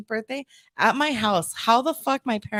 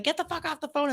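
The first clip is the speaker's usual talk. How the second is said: high but softer mock yell; retold echoed yell; 6 semitones higher, 6 dB quieter than usual. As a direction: echo the yell high, without the volume. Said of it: "you hear him yelling".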